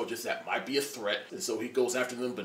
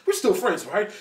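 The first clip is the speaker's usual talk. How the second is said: playful plea; 7 semitones higher, 8 dB louder than usual. Retold or imitated. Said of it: "Scarlet Witch is like".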